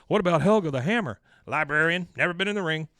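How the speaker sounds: outraged quote. Retold or imitated. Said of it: "He goes".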